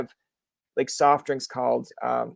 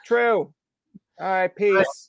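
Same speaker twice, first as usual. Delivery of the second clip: higher-pitched, hammed-up concession; mock meek agreement; 5 semitones higher, 4 dB louder, much slower than usual. Newcomer backing off from a heckler, mock agreeable. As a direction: give in and bow out.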